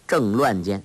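ordinary delivery, nothing marked

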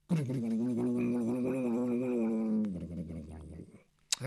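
low, fast rumbling thunder noise; storyteller's thunder rumble; rolling thunder. Acted. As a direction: roll it out like distant thunder.

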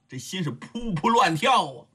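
plain reading voice

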